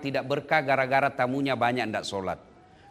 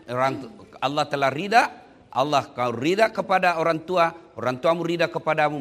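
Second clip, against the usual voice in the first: ordinary talk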